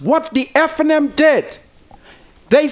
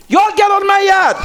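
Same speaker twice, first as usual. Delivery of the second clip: higher, louder mock shout of the old judge; retold judge's yell; 6 semitones higher, 3 dB louder than usual. Host retelling how the judge ran them out, mock shout. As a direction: bark it like the judge chasing them off. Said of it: "And he say".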